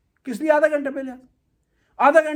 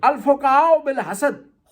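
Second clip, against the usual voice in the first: slow solemn citation; much slower than usual. Acted. Quoting hadith, then its meaning.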